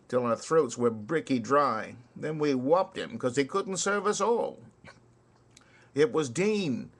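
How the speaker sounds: rhythmic ballad recital with swinging beat; poem recitation. Acted. Reciting Kipling's soldier ballad to listeners, rhythmic recital. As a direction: recite it like a barrack-room ballad.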